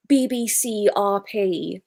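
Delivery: slow generic English accent; BBC RP accent. Shown as a demonstration. Showing which British accents work, slow BBC RP. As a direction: demonstrate slow BBC Received Pronunciation. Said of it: "generic English".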